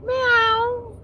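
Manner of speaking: very high, squeaky cat voice; playful high-pitched cat impersonation; pretend cat. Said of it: "I'd be like".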